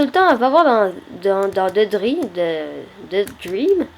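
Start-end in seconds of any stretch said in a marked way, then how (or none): 1.7-3.9 "Dream" said with a French accent; French accent in English. Real, not acted. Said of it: "excusez, euh, mon accent, là". (accent français en anglais)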